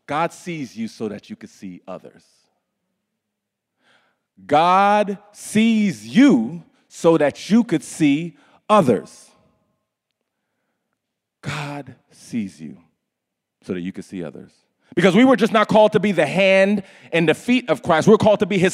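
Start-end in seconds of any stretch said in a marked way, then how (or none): 4.5-14.5 drawn out and deliberate; slow emphatic. Acted. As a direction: let each word land slowly.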